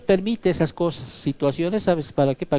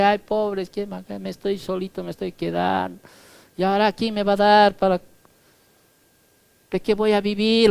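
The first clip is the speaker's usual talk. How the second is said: mock whining; 3 semitones higher than usual. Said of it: "llora y dice".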